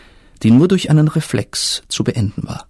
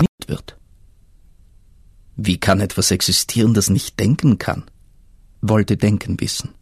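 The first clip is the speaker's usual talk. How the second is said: ancient river voice; 2 semitones higher than usual. Acted. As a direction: speak as the timeless river explaining calmly. River answers Denken.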